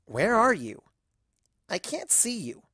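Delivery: calling out. Acted. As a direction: call out searching for the voice.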